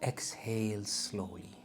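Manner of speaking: breathy meditation whisper; soft spa whisper. Acted. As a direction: whisper the cue to exhale.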